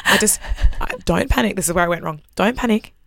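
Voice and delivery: low, soft, mock-calm report; understated calm. Daughter telling her mother not to panic about a fire, calmly. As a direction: break bad news quietly, keep it level. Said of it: "calmly told her the house was on fire".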